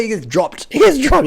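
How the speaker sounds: high laughing disbelief. Real, not acted. Laughing at rider dropped.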